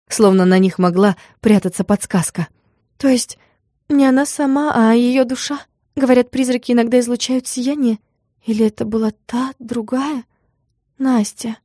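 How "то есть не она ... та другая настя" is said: lightly voiced girl, higher and wondering; a nervous girl musing about ghosts; Motya's voice. A narrator's reading.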